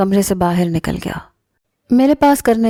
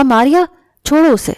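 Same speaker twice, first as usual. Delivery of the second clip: much higher, sharp command to let go; urgent shout; 6 semitones higher, 4 dB louder than usual. A narrator's reading. Adnan bursts in and orders his sister to let go, urgent shout. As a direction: shout her name to stop her. Brother stops sister strangling.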